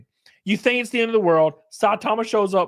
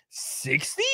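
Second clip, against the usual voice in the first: disbelieving whisper; 6 semitones lower, 8 dB quieter than usual. Real, not acted. Incredulous repeat at sixty episodes.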